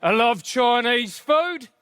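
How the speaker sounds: slow, loaded delivery; mock racist tone. Shown as a demonstration. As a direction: make an innocent line sound suspect. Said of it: "I can make anything sound racist".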